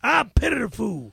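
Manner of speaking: loud tough-guy catchphrase; Mister T. Shown as a demonstration. Impressionist answers host's request, Mister T. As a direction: punch it out loud. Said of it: "Mister T".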